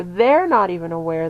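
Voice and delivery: THEY'RE hit firmly to underline "not even aware"; emphatic stress on THEY'RE. Shown as a demonstration. Stressing to viewers that some women are unaware, emphatic stress on THEY'RE. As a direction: lean hard on THEY'RE. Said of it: "that's what I'm emphasizing there".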